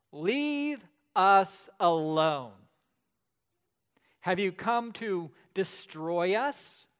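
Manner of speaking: slow, loud, otherworldly demon roar; a demon bellowing at the preacher. Acted. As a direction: drag every word out like something not human. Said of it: "there's this loud voice, otherworldly voice".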